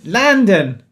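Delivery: hammy Cockney London; Cockney accent. Shown as a demonstration. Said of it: "That's a really bad Cockney accent".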